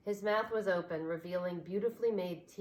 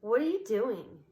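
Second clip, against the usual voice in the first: louder mocking question; teasing; 4 semitones higher, 7 dB louder than usual. A narrator's reading. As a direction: poke fun at him. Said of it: "she teased".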